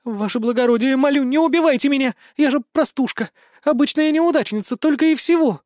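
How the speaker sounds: high, loud desperate begging. Acted. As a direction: plead for her life, voice climbing. Zoe begging for life. (отчаянная мольба, высоко и громко)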